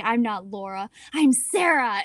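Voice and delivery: a lightly voiced other girl; playing a different person. Older sister pretending to be Sarah to scare her sister, lightly voiced. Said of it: "I became this different person".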